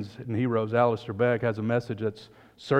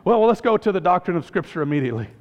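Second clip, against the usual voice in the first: fast and louder, hurrying on; flustered angel; 4 semitones higher, 4 dB louder, faster than usual. Acted. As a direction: rush to the next doctrine. Angel quizzing thief.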